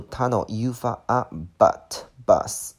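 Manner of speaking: tunnel, but, bus with an open "uh" vowel; short U sound. Shown as a demonstration. Teacher teaching how U sounds, "uh" in tunnel, but, bus. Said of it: "这个单词读tunnel，U发啊".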